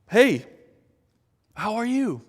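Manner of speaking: high and cheery greeting; bright greeting. Retold or imitated. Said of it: "wanted to just be honest".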